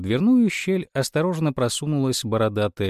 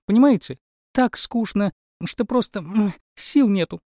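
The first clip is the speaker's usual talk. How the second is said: whiny princess; 7 semitones higher than usual. Acted. Princess whines about boredom.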